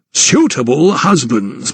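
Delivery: Suitable weighted and drawn out slowly; stress on suitable. Acted. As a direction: lean on the word Suitable, slowly. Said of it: "His emphasis was on the word suitable".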